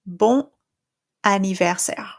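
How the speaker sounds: bon anniversaire with the N linked, no nasal; linked French N; liaison bon. Shown as a demonstration. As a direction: run bon into anniversaire with a clear N. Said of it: "then we should read this".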